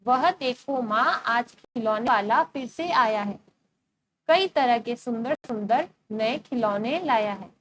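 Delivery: slow, measured verse reading; poem recitation. Acted. Teacher reading a poem to her class, slow recitation. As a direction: recite the verse slowly, word by word.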